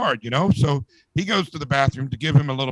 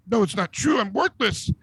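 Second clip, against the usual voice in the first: higher-pitched, mildly whiny despair; mock weepy self-pity; 5 semitones higher than usual. Weeping pianist refusing the bartender's comfort, mock weepy self-pity. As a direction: play a touch of tearful wallowing. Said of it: "And he starts weeping".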